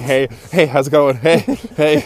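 casual bro greeting, repeated; awkward repeated greeting. Retold or imitated. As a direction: keep greeting over and over. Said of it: "You just keep on just saying".

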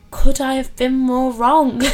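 ironic rhetorical question. Real, not acted. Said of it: "ironic rhetorical question".

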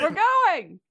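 Shane voice. Acted. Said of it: "That's Shane again".

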